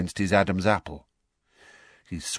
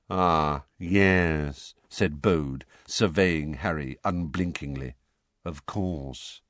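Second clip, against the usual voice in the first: mournful wizard; 5 semitones lower, slower than usual. A narrator's reading. Bode speaking gloomily.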